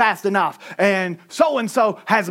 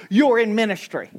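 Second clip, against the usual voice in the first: ordinary talk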